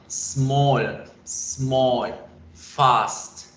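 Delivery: "small" and "fast" each one single beat; isolated words, "small, small, fast", one syllable apiece. Shown as a demonstration. Teacher showing syllables, each word in one beat. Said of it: "una sola sílaba".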